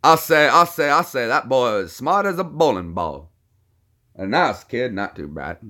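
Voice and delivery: swooping Southern cartoon voice, repeating himself; blustering cartoon Southerner. Streamer explains cacao video as a blustering Southern windbag. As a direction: lecture a boy with folksy bluster.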